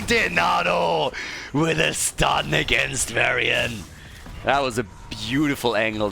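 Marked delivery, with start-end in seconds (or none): 0.0-3.8 excited shout. Real, not acted. Calling a stun.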